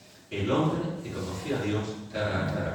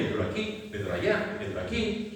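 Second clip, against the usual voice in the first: whiny complainer; 9 semitones higher, 4 dB quieter than usual. Pretend. Quoting chronic complainers' aches.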